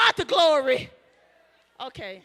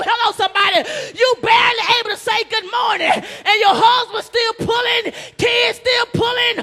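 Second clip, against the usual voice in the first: rising preacher's cadence, building to a shout; preaching at full force. Acted. Preacher building up the congregation, full-force preaching. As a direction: preach it, climbing with the crowd.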